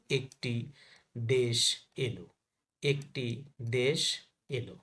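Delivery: একটি, দেশ, এলো with a close "e"; word-by-word drill of "e" in একটি, দেশ, এলো; natural e sound. Shown as a demonstration. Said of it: "স্বাভাবিক উচ্চারণ কি দেখো". (একটি, দেশ, এলো-তে স্বাভাবিক "এ" উচ্চারণ)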